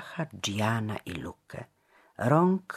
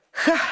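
a sighed exclamation; pensive, sighing ha; 8 dB louder than usual. A narrator's reading. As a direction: sigh out a short ha. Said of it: "westchnął wreszcie".

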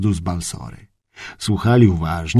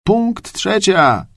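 sudden call; 8 semitones higher, much slower than usual. A narrator's reading. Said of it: "zawołał nagle drugi masztalerz".

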